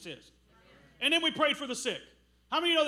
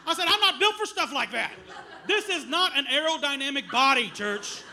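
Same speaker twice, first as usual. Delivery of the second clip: laughing; 3 semitones higher, 5 dB louder than usual. Real, not acted. Comic retelling of the run.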